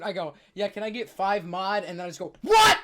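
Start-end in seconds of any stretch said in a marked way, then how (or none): 0.5-1.8 mock scream. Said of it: "I screamed". 2.4-2.8 sudden high panicked scream; screamed what. Retold or imitated. Ordering wings and flubbing the word, a panicked scream. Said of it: "I just scream".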